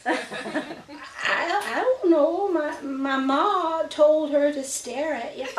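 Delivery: high, slow words broken by giggles; a small girl giggling as she explains; giggling little girl. A narrator's reading. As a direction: laugh your way through the answer, childlike. Lena stammers through laughter.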